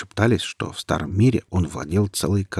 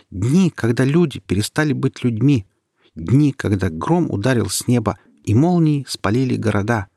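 reciting by heart; 4 semitones higher, 4 dB louder than usual. Acted. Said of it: "продекламировала Ника заученные наизусть".

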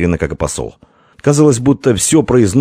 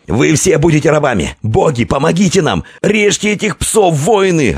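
envoy battle cry; 10 semitones higher than usual. A narrator's reading. Envoy to his warriors, frenzied shouting. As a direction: urge the warriors on. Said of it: "отвечал Таяк".

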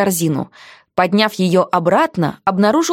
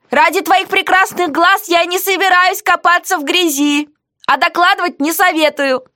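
heroine's quoted voice, higher; defiant heroine; 10 semitones higher than usual. Acted.

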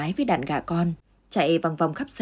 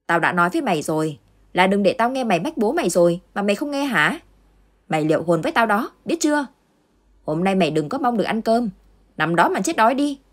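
angry shout; 3 semitones higher than usual. Acted. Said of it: "gương mặt giận dữ mà hét lên".

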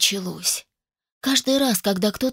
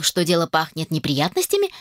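usual speaking voice

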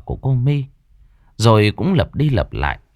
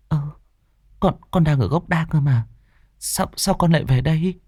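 stammering; 4 semitones higher than usual. Acted. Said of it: "Mẹ tôi lắp bắp".

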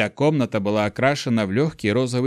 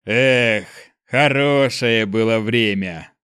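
pleased smile; 4 dB louder, much slower than usual. Acted. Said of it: "довольно улыбнулся он".

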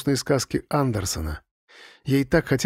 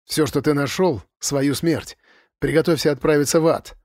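stern snap. Acted. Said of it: "сурово огрызнулась О'Коннелл".

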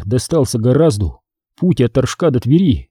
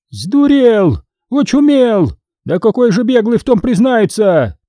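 high, sharp scolding exclamations; scornful outburst; 9 semitones higher than usual. A narrator's reading. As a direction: scoff at him, exasperated. Boyarynya scoffs at the idea. (язвительный возглас, высоко)

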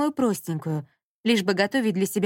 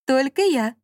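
higher, louder snide reply; 6 semitones higher, 5 dB louder than usual. A narrator's reading. Smart speaker answering Dasha, snide and louder. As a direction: needle her, sly and smug. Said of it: "ответили ей ехидно".

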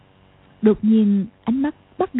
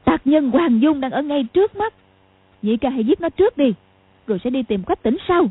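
higher, commanding shout; barked order; 4 semitones higher than usual. Acted. Sister ordering her brother to kill the enemy, shouting. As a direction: order the kill, urging him on. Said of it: "Cầu Thiên Xích quát lên".

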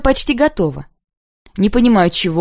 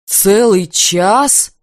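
slow, dragging question; drawn out; much slower than usual. A narrator's reading. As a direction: stretch the words slowly in disbelief. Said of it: "тянет он". (протяжно, с недоумением)

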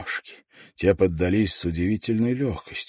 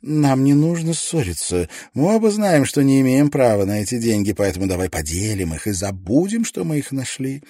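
desperate pleading; 5 semitones higher, 3 dB louder than usual. A narrator's reading. Desperate bargaining.

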